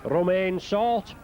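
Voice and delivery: French-accented player name, drawn out slowly; best French accent. Shown as a demonstration. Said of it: "In my best French accent".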